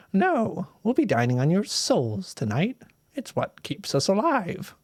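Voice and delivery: lightly voiced old witch, sweetly menacing; a hint of a cackling witch toying with kids; old witch telling the children they'll eat their souls; sly old witch. Witch reveals they eat souls.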